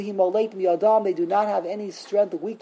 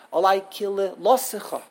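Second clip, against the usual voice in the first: KILILOSICHA stressed on LO, ending light; stress on the lamed. Shown as a demonstration. Teacher repeating where the emphasis goes, stress on LO. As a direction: lean into LO of KILILOSICHA, let SICHA drop. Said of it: "on the lamed".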